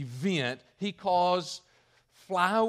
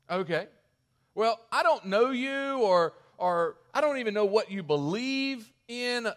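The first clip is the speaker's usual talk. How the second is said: imitating Elijah; 4 semitones higher, 4 dB louder than usual. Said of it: "Kinda goes something like this".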